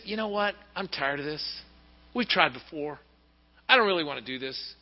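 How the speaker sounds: quiet, tired refusal; weary reluctant man. Retold or imitated. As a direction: sound worn out and unwilling.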